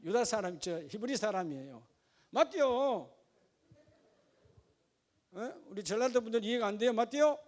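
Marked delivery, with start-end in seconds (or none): 2.3-3.1 마띠오 with a drawn Jeolla "o" ending; playful regional accent on 마띠오; Jeolla dialect. Shown as a demonstration. Preacher repeats the joke for a laugh, in Jeolla dialect. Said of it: "내가 전라도 사투리를 방언으로 하는데도". 6.9-7.4 마띠오 as a questioning Jeolla form; lightly Jeolla-accented 마띠오, asked of the listeners; Jeolla dialect. Shown as a demonstration. Preacher checking they get it, in Jeolla dialect. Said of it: "내가 전라도 사투리를 방언으로 하는데도".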